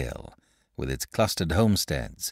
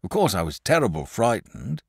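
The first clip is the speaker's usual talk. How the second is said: raised, rustic shepherd voice telling a tale; a shepherd spinning a spooky tale by the fire; old shepherd; 4 semitones higher than usual. Acted. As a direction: tell it like a wary old country shepherd. Shepherd voiced in read story.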